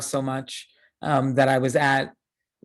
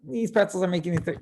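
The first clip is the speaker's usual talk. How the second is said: mildly annoyed; 3 semitones higher, faster than usual. Retold or imitated. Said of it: "upset, but not really".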